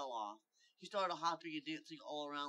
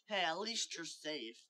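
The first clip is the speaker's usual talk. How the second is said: raised, louder call; mild shout, pitched up; 4 semitones higher, 7 dB louder than usual. Acted. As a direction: call it out brightly to a friend. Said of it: "Midnight Light shouted".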